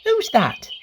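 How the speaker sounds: high, timid little call from inside; frightened call. A narrator's reading. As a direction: call out, startled and a bit scared. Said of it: "A little frightened voice called out".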